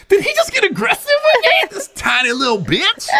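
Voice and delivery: high, laughing disbelief; giggling through the insult. Retold or imitated. Laughing inner thought about Terrence.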